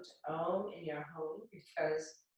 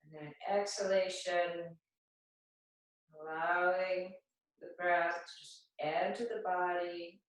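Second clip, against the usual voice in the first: unhurried meditation voice with long pauses; guided meditation. Acted. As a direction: guide them calmly into the breath, leaving space between phrases. Guides breathing and grounding meditation.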